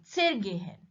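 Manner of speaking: "zergehen" with a short, sudden ZER, then GEHEN; "zergehen" stressed on the verb part. Shown as a demonstration. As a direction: slip over "zer" and lean on "gehen". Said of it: "stress is on the verb gehen".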